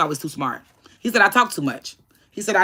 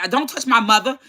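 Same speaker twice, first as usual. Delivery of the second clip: retold indignant warning, pitched up; mad; 4 semitones higher than usual. Daughter retelling her warning to dad, mad. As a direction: re-enact the protective objection, higher. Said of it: "We was all mad".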